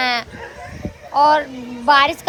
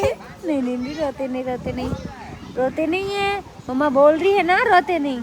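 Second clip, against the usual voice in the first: soothing hush; 3 semitones lower than usual. Real, not acted. Mother soothing crying child.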